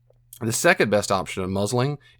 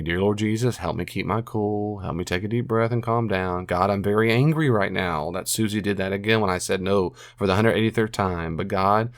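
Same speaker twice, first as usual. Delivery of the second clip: demonstrated prayer. Shown as a demonstration. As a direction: pray your way down from anger, understated. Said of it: "Another thing I do is I pray".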